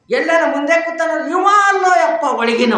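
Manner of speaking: high, loud exclamation; loud acted protest. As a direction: call it out high and loud, acting the exchange. Acted exchange over the dead father.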